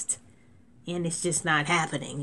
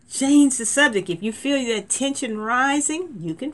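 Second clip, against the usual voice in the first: excited exhortation; 7 semitones higher, 6 dB louder than usual. Real, not acted. Lively sermon exhortation after laughing.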